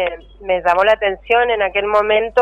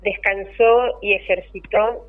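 poem reading. Acted. Poem read aloud on air.

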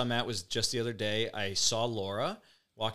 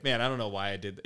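imitating Dave, plain; 3 semitones lower than usual. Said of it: "the classic Dave Hunt".

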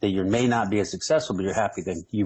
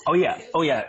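a burst of much higher, louder excitement; excited; 7 semitones higher, 3 dB louder than usual. Real, not acted. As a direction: pump it up before the plug. Hyping his channel plug.

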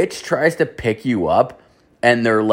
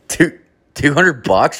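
shocked disbelief; 6 semitones higher, slower than usual. Retold or imitated. Stunned by the price.

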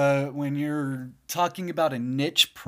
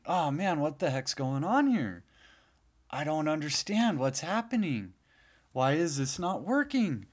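mildly exasperated, slightly raised voice; retold bafflement; 3 semitones higher than usual. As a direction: act out being lightly stumped. Retells own baffled troubleshooting.

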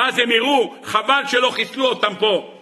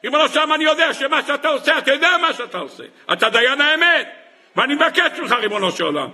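raised-pitch acted plea to God; pleading for mercy; 3 semitones higher than usual. Man in trouble begs the Master of the world, pleading. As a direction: implore God, mostly high in pitch. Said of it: "אדם מבקש רחמים".

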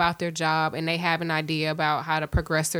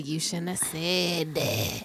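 scolding coworker; 3 semitones lower, 4 dB quieter, slower than usual. Retold or imitated. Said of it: "talking about".

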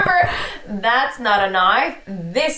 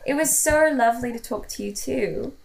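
put-on British accent; 4 dB quieter than usual. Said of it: "No, it's British again".

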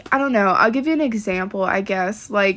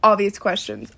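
fed up; slower than usual. Real, not acted. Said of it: "my control has gone out".

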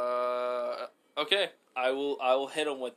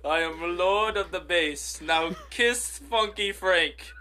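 pompous lord voice; 4 semitones higher, 4 dB louder, slower than usual. Pretend. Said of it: "Lord, I like that".

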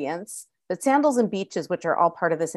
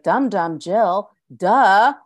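mock know-it-all listener; 5 dB louder than usual. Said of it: "East Coast listeners will be like".

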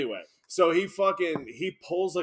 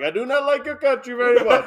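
higher, louder hammed-up villain line; mock foreign villain; 6 semitones higher, 7 dB louder than usual. Comic retelling the prank's fake terrorist to friends, mock villain. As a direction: put on a comic threatening passenger. Acting out the pretend terrorist in the cab.

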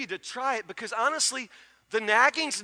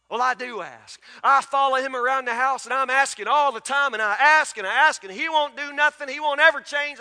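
a whiny put-upon wife, pitched up and louder; mock complaining wife, higher and louder; 3 semitones higher, 5 dB louder than usual. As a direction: play the fed-up wife griping. Congregant voice complaining about husband.

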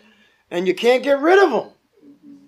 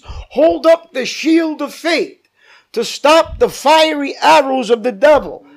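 slow, louder, deliberate Bible reading; scripture reading; 4 dB louder, slower than usual. Acted. Pastor reading the armor verse to the church, slow and louder. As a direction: lay out each line of the verse slowly.

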